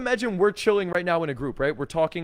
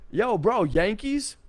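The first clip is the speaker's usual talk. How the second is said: higher-pitched, upbeat call to a stranger; loud, friendly; 5 semitones higher, slower than usual. Acted. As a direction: call over like a cool, smiling bro. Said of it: "he was nice and loud, smiling and cool about it".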